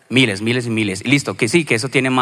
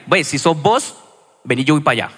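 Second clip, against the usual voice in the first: Caleño Spanish. Retold or imitated. Preacher paraphrasing Peter to Jesus, light Caleño accent. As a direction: retell Peter in relaxed Caleño slang. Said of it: "palabra un poco más caleña".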